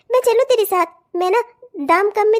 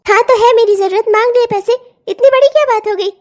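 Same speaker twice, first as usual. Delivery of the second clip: louder, defiant retort; angry; 5 dB louder than usual. Acted. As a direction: defend her demand hotly. Wife defends her demand. (सास के सामने गुस्से में सफ़ाई)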